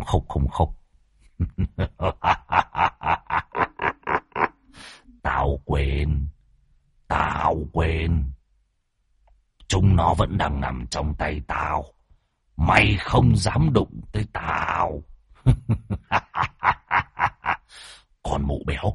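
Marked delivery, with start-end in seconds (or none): 1.4-4.5 low, soft evil cackle; lower, quieter menacing laugh; demon cackle. Acted. 5.2-15.0 low, soft, slow demon voice; quiet, slow sinister creature; taunting demon. Acted. 15.4-17.5 demon cackle. Acted. Demon laughs again.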